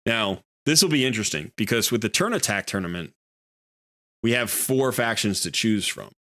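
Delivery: choppy broken-up stream audio; glitching audio. Real, not acted. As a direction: voice cutting out over bad connection. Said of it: "you're breaking up a bit now".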